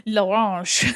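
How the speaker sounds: slow, hammed-up French accent on l'orange; mock French. Shown as a demonstration. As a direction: draw out l'orange like a cartoon Frenchman. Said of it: "I just said".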